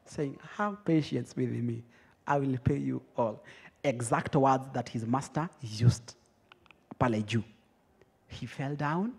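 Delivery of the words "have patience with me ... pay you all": low, soft, submissive plea; meek acted entreaty; begging. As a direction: beg quietly as if at someone's feet. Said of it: "fell down at his feet and begged him".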